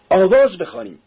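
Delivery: high, rousing shout; calling out. A narrator's reading. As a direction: call the crowd to join in. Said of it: "یک نفر فریاد زد". (فریاد زیر و پرشور)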